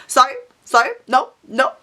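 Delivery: mocking repetitive refusals, climbing very high; mock parroting, pitch soaring at the end; mimicked flustered replies. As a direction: imitate them, shooting up into a high squeal of no's. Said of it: "they were just like".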